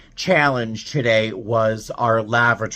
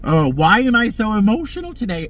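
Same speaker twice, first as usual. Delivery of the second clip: real teary emotion; 8 semitones higher, 5 dB louder than usual. Real, not acted. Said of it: "I'm gonna start to cry again".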